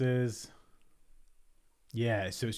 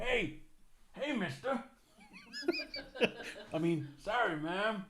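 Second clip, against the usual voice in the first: a lightly voiced cowboy, much higher; half-hearted cowboy impression; Arthur Morgan; 12 semitones higher, 4 dB quieter than usual. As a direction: try a western drifter's greeting. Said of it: "we could always do a bit of Arthur Morgan".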